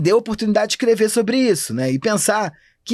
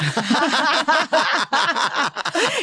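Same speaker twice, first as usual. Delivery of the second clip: riso alto; 7 semitones higher than usual. Real, not acted. Ri do elogio do filho.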